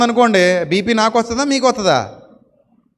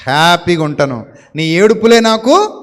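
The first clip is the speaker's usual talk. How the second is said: gloating taunt. Pretend. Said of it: "అని చెప్పాలట".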